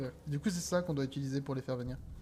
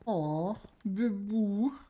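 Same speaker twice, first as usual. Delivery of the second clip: cooing; 4 semitones higher, much slower than usual. Real, not acted. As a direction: coo it at something cute. Cooing at a cute creature.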